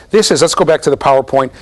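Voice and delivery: normal talking voice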